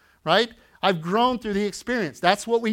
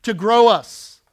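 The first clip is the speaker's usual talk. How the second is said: slow and deliberate, stress on God and grow; slow emphatic; much slower than usual. Real, not acted. Pastor giving church notes, slow emphatic. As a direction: spell it out slowly for note-takers. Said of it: "you can write this down".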